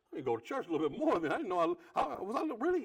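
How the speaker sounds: flattered laughing ramble. Retold or imitated.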